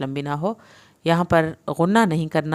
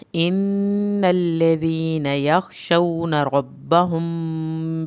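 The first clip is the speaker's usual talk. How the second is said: slow chanted tajweed recitation; Quran recitation; much slower than usual. Shown as a demonstration. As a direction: intone the verses slowly. Teacher recites verses.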